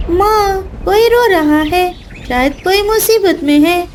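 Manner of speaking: lightly voiced concerned chick; a little one worried for someone. Chick tells mother of crying.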